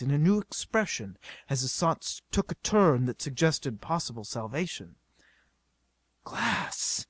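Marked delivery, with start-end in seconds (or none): 6.2-7.1 soft, musing mutter. A narrator's reading. Stanley puzzles over the helmets to himself, muttering. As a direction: mutter it as if thinking aloud. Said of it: "he muttered".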